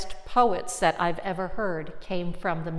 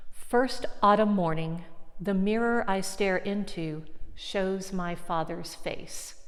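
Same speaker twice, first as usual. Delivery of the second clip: poem reading. Shown as a demonstration. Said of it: "I'm gonna read you another one".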